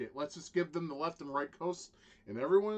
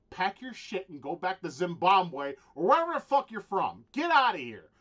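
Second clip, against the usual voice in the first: loud, raised-pitch angry order; angry dismissal; 5 semitones higher, 10 dB louder than usual. Acted. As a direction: send them off with a heated shout. Angry rant, mock order to outsiders.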